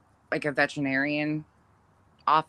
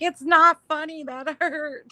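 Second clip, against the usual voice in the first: aggrieved protest; 13 semitones higher, 5 dB louder, slower than usual. Retold or imitated. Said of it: "And he's like".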